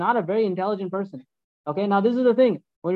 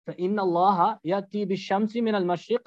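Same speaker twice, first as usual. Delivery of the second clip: verse recitation; much faster than usual. Acted.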